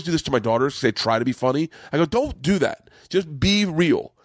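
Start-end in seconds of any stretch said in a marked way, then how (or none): 2.1-4.1 higher-pitched mild scolding; retold exasperated plea to staff; a little upset. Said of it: "I actually got a little upset".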